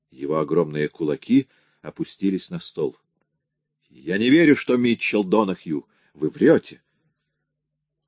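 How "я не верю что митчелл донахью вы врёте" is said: loud, furious accusation; angry denial. Acted. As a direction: hurl the accusation at him. Solo enraged, fists on table.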